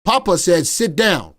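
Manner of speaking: loud mock-stern command; stern Papa. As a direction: lay down the law as grandpa. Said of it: "get a belt out and be like".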